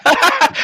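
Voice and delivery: a quick, high laugh; short laugh. Real, not acted. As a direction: laugh off the objection. Host laughs at caller's objection. (tawa pendek)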